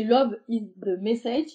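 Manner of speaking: English phrase in a heavy French accent, a little slow. Real, not acted. Embroiderer quoting the association's motto, in French-accented English. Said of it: "super, mon accent anglais".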